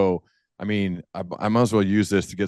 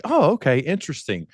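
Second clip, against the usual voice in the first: mock surprise; 6 semitones higher than usual. Host voicing a first-time learner's surprise. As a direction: play the newcomer caught off guard. Listener reacting to new idea.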